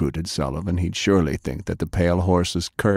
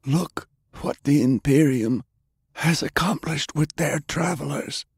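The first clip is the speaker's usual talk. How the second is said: put-on lightly raised, coaxing older man; persuasive Browning; 9 semitones higher than usual.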